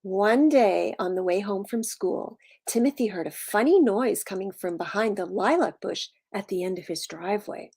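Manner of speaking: animated storytelling with punched key words; story read-aloud. A narrator's reading. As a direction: read to preschoolers, leaning on the describing words. Reads picture book to children.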